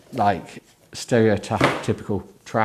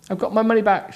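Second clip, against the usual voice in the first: 1 triumphant; 12 semitones higher, faster than usual. Acted. Jane triumphant, waving notes.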